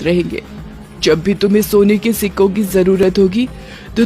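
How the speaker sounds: lightly voiced witch granting a gift; a hint of a generous ghost mother; benevolent witch mother. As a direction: promise a blessing, in measured phrases.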